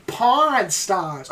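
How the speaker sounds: "Porn stars" with a chewed, drawn-out "Porn"; chewed-up pronunciation. Shown as a demonstration. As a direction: chew "Porn" slowly in the mouth. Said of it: "chew those words up more".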